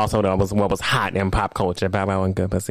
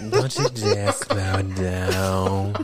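very slow, low villain purr; slow theatrical villain menace; 4 semitones lower, much slower than usual. Pretend. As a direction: savor each word like a scheming villain. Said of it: "That sound like a villain in a Disney movie".

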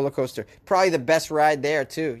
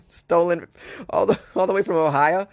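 put-on Maine accent; 2 semitones higher, 3 dB louder than usual. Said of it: "That's the Maine accent".

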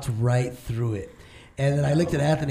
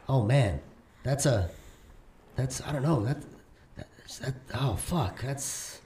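shaken stammer; 2 semitones lower, 7 dB quieter, slower than usual. Retold or imitated. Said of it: "he's like".

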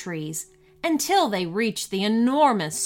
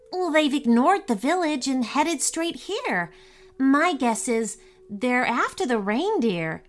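christmas elf; 4 semitones higher than usual. Acted. Elf reasons aloud.

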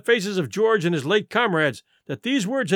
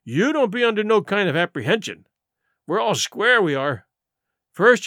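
indignant pirate, pitched up into complaint; George, accusing mutineer; 4 semitones higher, 3 dB louder than usual. Acted. George listing Silver's failings before the crew, accusing. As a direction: count out the grievances defiantly.

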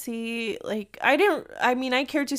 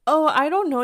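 clueless stranger; 6 semitones higher, 7 dB louder than usual. Retold or imitated. Imitates strangers giving unhelpful directions.

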